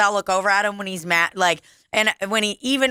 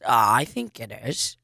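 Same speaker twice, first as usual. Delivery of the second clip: imitating Donald; 10 semitones lower, 3 dB quieter than usual. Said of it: "And he goes".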